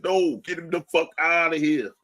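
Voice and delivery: put-on jeering in a light New York accent. Mock fan jeering in a light New York accent. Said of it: "my fucking New York accent".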